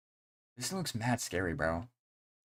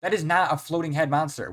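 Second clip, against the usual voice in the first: sudden, higher and louder disbelief; surprised outburst; 6 semitones higher, 6 dB louder than usual. Real, not acted. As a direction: blurt it out, shocked by the search result. Search result shows wrong creature.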